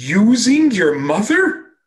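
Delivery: sudden, livid, furious high-pitched shouting outburst. The speaker quotes a usually gentle man shouting at them, retelling a furious shout. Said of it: "he shouted at me in Yiddish".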